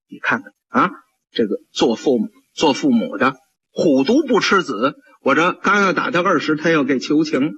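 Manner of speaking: puzzled official thinking it over; low musing magistrate. Acted. The magistrate puzzles over the father's plea, low voice.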